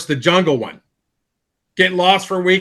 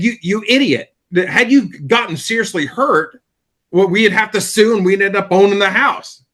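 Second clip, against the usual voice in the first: retold scolding; 4 semitones higher than usual. Wife scolding him, retold.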